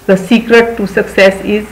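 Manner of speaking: very slow, word by word; slow reading. Shown as a demonstration. Teacher reading a motto to children, very slow. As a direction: read it out slowly for children. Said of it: "teacher reads English slowly".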